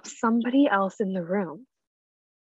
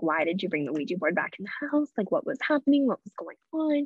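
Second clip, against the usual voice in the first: mild mock yell. Grandma to dad about the Ouija board, mild mock yell. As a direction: imitate an exasperated yell without raising volume. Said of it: "my grandma yelling at my dad".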